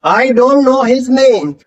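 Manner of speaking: know said very slowly, k silent; stretched word by word; slow careful demo. Shown as a demonstration. Teacher models silent k, very slowly. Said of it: "के silent है तो के नहीं बोलना".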